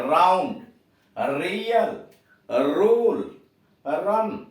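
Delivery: राउंड रियल रूल रन with a trilled r; demo of initial r words. Shown as a demonstration. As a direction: say each word slowly, rolling the r. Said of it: "जीभ में थिरकन". (र की थिरकन के साथ उदाहरण)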